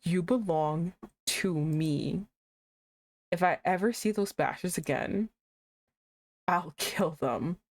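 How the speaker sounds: low, slow, menacing possessive growl; possessive villain growl. Acted. Reading the game villain's threat, slow low growl. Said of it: "This is why you don't give bitches".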